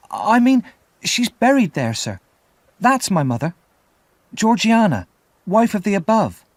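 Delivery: put-on boy quickly explaining to the frightened convict that his mother is buried there; eager explanation. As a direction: rush to reassure him, voice up high. Boy hastily explaining to scared convict.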